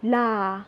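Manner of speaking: "la" said on a low, level pitch. Shown as a demonstration. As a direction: drop "la" into the low Burmese tone. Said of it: "the second one is low".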